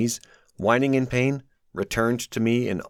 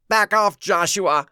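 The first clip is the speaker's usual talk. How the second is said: louder, higher snarl; 9 semitones higher, 5 dB louder than usual. A narrator's reading. Abraham snarling at Josh, angry. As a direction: warn him off with a snarl. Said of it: "Abraham snarled at me".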